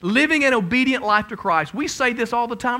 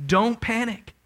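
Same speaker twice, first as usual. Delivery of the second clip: slow, firm and comforting; slow, reassuring voice of God; reassuring scripture reading; 2 semitones higher, slower than usual. Acted. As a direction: speak God's promise tenderly. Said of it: "Isaiah forty-one and ten".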